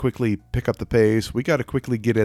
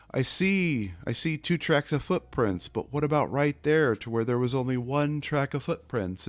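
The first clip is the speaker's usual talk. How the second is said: hushed plea; 3 semitones higher, 6 dB quieter than usual. Acted. Person voiced speaking to deity.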